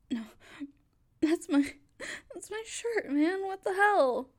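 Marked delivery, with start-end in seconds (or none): 1.2-4.3 tearful protest. Acted. Stranger tugging at her shirt.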